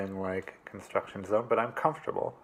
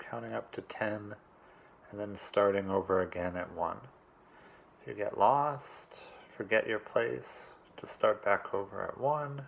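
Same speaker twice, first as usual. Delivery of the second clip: calm, unhurried meditation coach; measured meditation instructions in short, spaced phrases; guided meditation; 5 dB quieter than usual. Real, not acted. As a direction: guide them gently through it, leaving long pauses. Leads a meditation.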